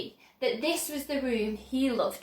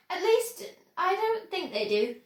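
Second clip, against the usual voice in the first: sudden doubt; 5 semitones higher than usual. Acted. Sudden doubt after boast.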